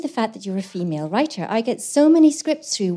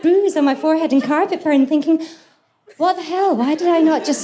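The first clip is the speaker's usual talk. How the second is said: still laughing; 8 semitones higher, 4 dB louder than usual. Real, not acted. Laughing through the mattress disaster.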